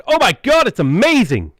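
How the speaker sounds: high, loud burst of mock excitement; excited. Shown as a demonstration. Asked to sound excited for a mic test, squeals with fake excitement. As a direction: gush like it's the best news ever. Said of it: "Try getting excited".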